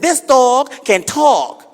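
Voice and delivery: high, slow insistence; high insistent. Acted. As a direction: stretch it out, high. Guy insists.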